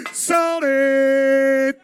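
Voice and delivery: triumphant auctioneer shout; sold shout. Real, not acted. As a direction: shout the sale closed. Auctioneer closing the sale.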